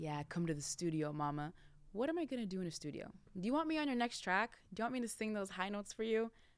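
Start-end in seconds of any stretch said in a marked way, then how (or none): 0.0-1.5 low male voice with flirty come-on tone. Retelling what guys would say inviting the speaker to the studio, imitating a guy. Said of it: "guys would be like".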